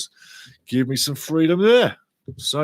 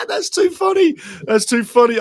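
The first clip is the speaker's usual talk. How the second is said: high, loud laughter spilling into the words; cracking up at the chat; laughing hard; 13 semitones higher, 7 dB louder than usual. Real, not acted. Streamer laughing at a viewer's joke, real laughter. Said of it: "that is funny".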